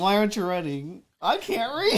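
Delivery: a light cartoon voice; SpongeBob quote. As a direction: play the dumb cartoon character, half laughing. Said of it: "He's like".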